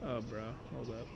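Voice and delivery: soft, rushed, sneeze coming on; holding back a sneeze. Real, not acted. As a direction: quickly hold off a sneeze. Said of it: "I don't wanna sneeze in front of the mic".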